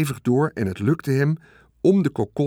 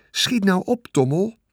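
much higher, pressing hurry; urgent plea; 8 semitones higher than usual. Acted. Wilbur urging the rat to hurry, anxious and pressing. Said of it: "zei Wilbur".

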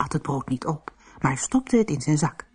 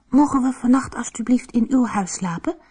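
polite; 8 semitones higher than usual. A narrator's reading. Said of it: "vroeg hij beleefd".

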